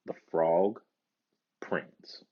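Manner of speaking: breathy whisper for the title word. A narrator's reading. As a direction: whisper it like a secret.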